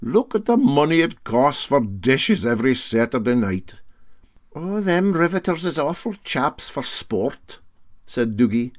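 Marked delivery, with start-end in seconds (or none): 0.0-3.8 put-on raised, hearty old skipper voice; Para Handy's voice. Captain taking up the bet, hearty and raised. 4.6-7.6 much higher, doubting question; Dougie's voice. Acted. Mate Dougie to captain, high and doubting.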